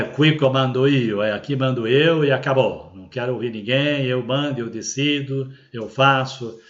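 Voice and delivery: lightly voiced boss laying down the law; a touch of brusque, end-of-discussion authority; mildly imperious, as if nobody else gets a say; bossy authoritarian. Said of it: "na expressão dos italianos".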